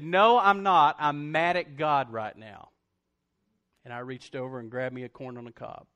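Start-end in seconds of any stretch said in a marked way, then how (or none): 0.0-2.7 blunt refusal. Retold or imitated. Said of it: "And I said".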